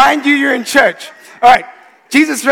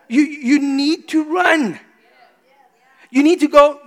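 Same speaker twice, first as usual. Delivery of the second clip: slow, higher urgent call, run stretched out; urgent preaching; 6 semitones higher, slower than usual. Acted. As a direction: preach it like a warning, drawn out. Preacher urging the congregation to leave.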